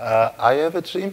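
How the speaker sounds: tentative, soft voice. Retelling an answer to an upset questioner: gentle, hesitant. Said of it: "And I gently said".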